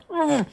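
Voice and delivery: high muffled grunt; muffled captive noise. Acted. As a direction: grunt through a gag. Gagged captive waking on the ground.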